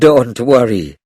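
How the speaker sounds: a mild laugh behind "Don't worry"; laughing lightly. Acted. Grandmother reassuring the family, lightly laughing. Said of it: "Grandmother laughed".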